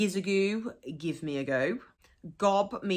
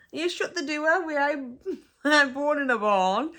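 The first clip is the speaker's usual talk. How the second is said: higher Black Country voice, amused, DOOR as "doo-ah"; playful Black Country telling-off, pitched up; Black Country accent; 8 semitones higher, 4 dB louder than usual. Acted. Teacher mimics locals saying shut the door, playful Black Country accent. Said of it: "You might also hear people saying".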